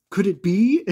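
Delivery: high, loud, over-the-top astonishment; melodramatic gasp. Retold or imitated. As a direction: ham up the dramatic reveal. Vision stunned by the reveal.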